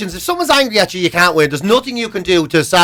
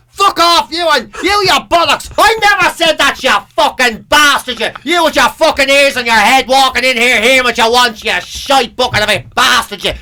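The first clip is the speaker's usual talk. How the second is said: raised, ranting abuse in a mock fight; mock angry row; 2 semitones higher than usual. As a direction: hurl insults like a furious lad. Acted quarrel shouting abuse.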